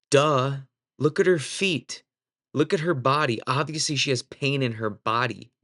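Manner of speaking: retold "are you serious" exasperation; exasperated disbelief. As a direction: point out the painfully obvious. His exasperated inner reply.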